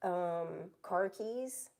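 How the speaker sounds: "car keys" slow with a Boston dropped r, like khakis; Boston pronunciation. Shown as a demonstration. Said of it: "the way that you say".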